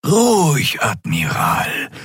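a high word, then a slow alien whisper; nonhuman voice. Acted. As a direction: soothe him in an alien hush. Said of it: "sagte eine nichtmenschliche Stimme".

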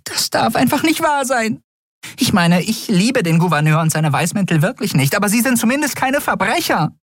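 hoch, schnell, aufgebracht; empört und fassungslos, viel höher; völlig außer sich. A narrator's reading. Nelen aufgebracht. (Nelen ist völlig außer sich vor Empörung)

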